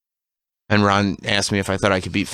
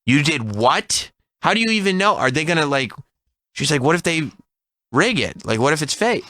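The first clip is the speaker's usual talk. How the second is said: retold panic; 6 semitones higher than usual. Wife's panicked reaction retold.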